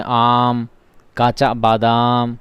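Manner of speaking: "आम" and "बादाम" with the aa drawn out; stretched long aa. Shown as a demonstration. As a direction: slowly stretch the aa in "आम, काचा बादाम". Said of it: "ममदूदा को खींच कर पढ़ते हैं".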